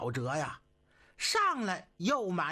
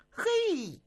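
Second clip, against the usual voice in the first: surprised hey; 12 semitones higher than usual. A narrator's reading. Storyteller's exclamation, Cixi angered.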